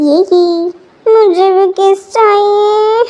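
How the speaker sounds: put-on slow, teary childish whine; whiny crying child. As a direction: beg like a sulking toddler. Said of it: "तुम भी ऐसे बच्चे जैसे हरकतें".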